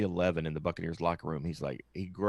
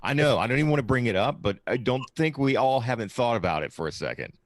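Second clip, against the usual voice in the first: excited; 6 semitones higher, 7 dB louder than usual. Real, not acted. Excited about a scenario.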